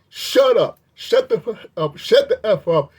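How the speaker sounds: mild mock yell with pauses between words. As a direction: bite out each insult with pauses. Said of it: "He's yelling".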